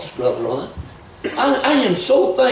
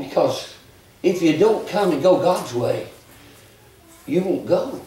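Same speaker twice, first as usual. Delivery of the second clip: gentle invitation; 4 semitones lower than usual. Acted. Altar call invitation.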